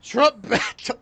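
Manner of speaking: mock headline. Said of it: "the headline was probably something like".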